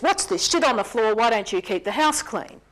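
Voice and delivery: loud, accusing snap at the wife; husband storming in the door, an angry loud rebuke. Retold or imitated. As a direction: barge in and blame her for the mess. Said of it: "slams the door shut and says".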